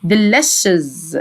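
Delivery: "delicious" slowed and lengthened; low-pitched, lingering "delicious"; slow pronunciation demo. Shown as a demonstration. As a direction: draw out "delicious" for learners. Teacher's last, drawn-out model take.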